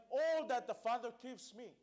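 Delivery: All punched and held long; stress on All. Real, not acted. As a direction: hit "All" hard at the start. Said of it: "I want to stress on the word".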